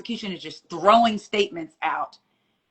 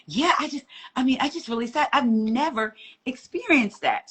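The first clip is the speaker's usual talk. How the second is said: imitating sad woman; 7 semitones higher than usual. Retelling the lady's sad reply outside court, hammed-up higher voice. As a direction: play her sadness up, pitched higher. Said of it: "she was sad and she was like".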